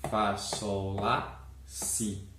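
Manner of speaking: slow, drawn-out note names; notes named slowly. Shown as a demonstration. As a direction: spell out each note slowly. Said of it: "analisar as notas musicais". (nomes das notas ditos devagar)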